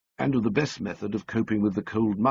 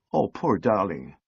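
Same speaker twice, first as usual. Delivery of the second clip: tender pity. A narrator's reading. Sally pitying the sobbing lift man, tenderly. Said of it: "she broke off".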